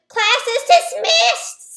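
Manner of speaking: teacher announcing. Retold or imitated. Teacher quoted in story.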